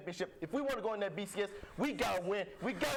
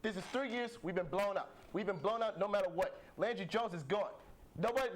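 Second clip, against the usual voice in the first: Jackson Jeffcoat impression. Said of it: "I'm gonna be Jackson Jeffco now".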